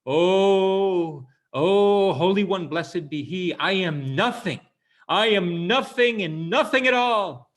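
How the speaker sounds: high, loud wailing prayer, slowing at the end; a hammed-up cry of humility to heaven; cries out to God. Rabbi kneeling before the ark, crying out in a loud wail. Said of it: "he kneels down and he cries out".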